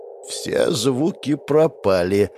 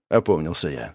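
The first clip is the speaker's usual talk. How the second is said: plain reading voice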